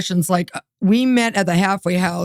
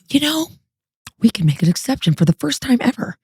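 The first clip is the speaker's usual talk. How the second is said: officer suddenly relenting; 4 semitones higher than usual. Retold or imitated. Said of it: "all of a sudden she, like, switches".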